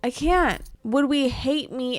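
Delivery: overdramatic self-denial; dramatic whine. Real, not acted. Torn over reusing the fridge.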